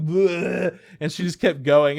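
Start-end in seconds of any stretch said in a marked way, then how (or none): 0.0-0.8 higher-pitched fake gag of disgust; mock retching. Egging a coworker on, mock retching. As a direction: egg her on with a pretend puke. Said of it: "that's fucking disgusting".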